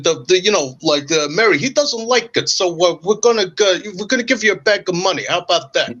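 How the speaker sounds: a hint of a mob enforcer; mobster. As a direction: lean in like a Sopranos goon making an offer. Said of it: "are we on an episode of The Sopranos now".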